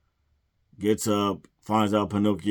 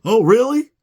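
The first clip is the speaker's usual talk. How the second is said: much higher and louder, a squeaky sarcastic "really"; mock surprised squeak; 14 semitones higher, 10 dB louder than usual. Retelling the scene, a squeaky mocking "really". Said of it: "Hook is like".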